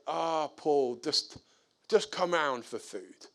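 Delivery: soft-edged, easy offer at everyday pitch; mild, hesitant coaxing; gentle invitation. Retold or imitated. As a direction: invite him round kindly, without pushing. First, gentle invitation to neighbour.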